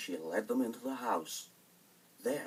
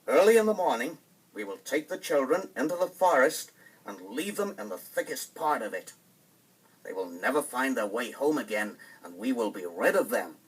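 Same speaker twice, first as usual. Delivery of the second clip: cruel stepmother; 6 dB louder than usual. Acted. Stepmother lays out cruel plan.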